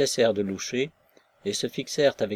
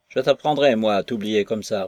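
stern guard; 6 dB louder than usual. Acted. Guard scolds Maslova.

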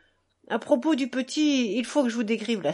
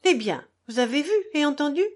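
irritated tone; 5 semitones higher, faster than usual. Acted. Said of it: "d'un ton courroucé".

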